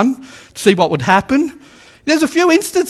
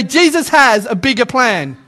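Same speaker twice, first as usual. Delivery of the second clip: confident declaration. Shown as a demonstration. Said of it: "now it sounds like you've had your coffee".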